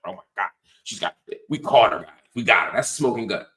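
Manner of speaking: quick mock gotcha excitement; mock frenzy. Host imitating conservatives who caught her, mock frenzy. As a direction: rush it in pretend triumph, building. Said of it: "losing their minds about this".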